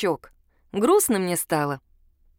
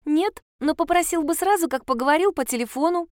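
put-on child's excuse; 9 semitones higher than usual. A narrator's reading. Child justifying herself.

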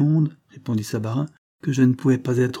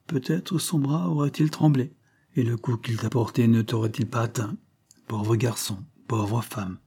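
tearful. Acted. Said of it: "de grosses larmes coulèrent".

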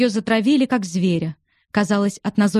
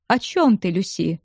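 ordinary delivery

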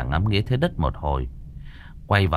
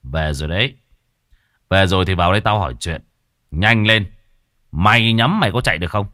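stern, commanding spirit summons; cold command; 3 dB louder, faster than usual. Acted. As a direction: order the ghost in without warmth. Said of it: "Cậu lạnh giọng". (giọng lạnh lùng ra lệnh cho vong)

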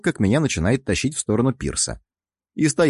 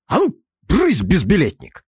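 shooing shout; 8 semitones higher, 3 dB louder than usual. Acted. Hero shoos octopus.

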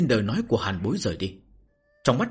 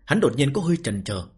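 story narration. A narrator's reading. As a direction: narrate the novel with measured phrases and pauses. Reads a novel aloud to listeners. (giọng kể truyện)

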